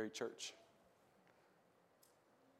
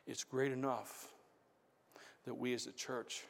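hushed preaching; 11 dB quieter than usual. Real, not acted. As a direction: draw them in almost under the breath. Quiet reflective sermon passage.

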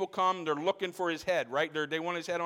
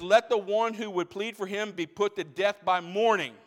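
rising proclamation; 2 semitones higher, 5 dB louder than usual. Retold or imitated. Joash daring the village to defend Baal, building louder. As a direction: defy the crowd. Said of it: "And he says".

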